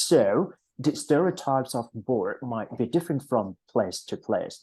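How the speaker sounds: "So" set apart, then the rest in one flow; pause after SO. Shown as a demonstration. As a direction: break after "So", run on through "place to place". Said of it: "สังเกตนะ พี่จะวัก". (เว้นวรรคหลัง "So" แล้วอ่านต่อเนื่อง)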